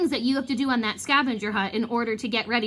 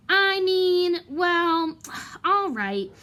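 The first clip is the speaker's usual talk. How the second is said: hesitant Lockhart; 7 semitones higher, 3 dB louder, much slower than usual. Acted. Lockhart caving in reluctantly.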